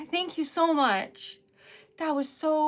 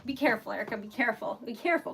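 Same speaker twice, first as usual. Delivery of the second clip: self-calming; 4 semitones lower, 5 dB quieter, much faster than usual. Real, not acted. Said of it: "Calm, collected".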